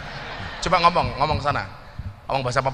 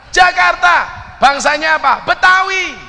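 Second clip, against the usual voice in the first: seruan lantang; 13 semitones higher, 7 dB louder, slower than usual. Real, not acted. Calling out to the crowd.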